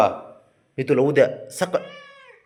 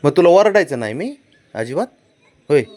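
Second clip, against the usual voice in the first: coaxing; 6 semitones higher, 8 dB louder than usual. Real, not acted. Father coaxing sulking child.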